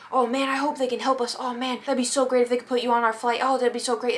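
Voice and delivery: retold wishful "oh man" chatter; mock hopeful gushing. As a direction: play up the hopeful pleading. Acting out hopeful overheard chatter.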